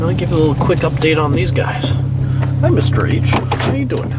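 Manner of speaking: stuffy nose from a cold; nasal voice. Real, not acted. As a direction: talk through a blocked nose. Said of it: "sorry about the nasally voice".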